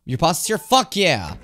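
loud, high cheer; real excitement. Real, not acted. Player hearing the pasta is here, loud real excitement.

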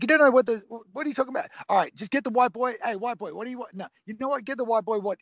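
high-pitched, incredulous mock outburst; imitating a music mogul. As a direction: mimic a big shot ordering for a newcomer. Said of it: "He's like".

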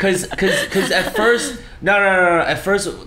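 high laughing stammer. Real, not acted. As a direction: laugh while restarting. Laughing stumbling restart.

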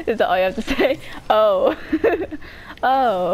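giggling "Oh" between laughs; laughing. Real, not acted. Kid laughing at a sibling's weak reply, real giggles.

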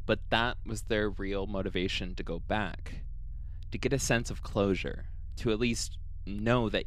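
calm, even storytelling read; podcast storyteller reading the case; story narration. A narrator's reading. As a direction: narrate the eerie account steadily.

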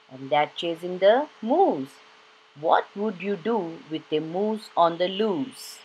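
lively, sing-song storybook reading; reading to children. Acted. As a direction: read it like a bedtime picture book for kids. Reads picture book to children.

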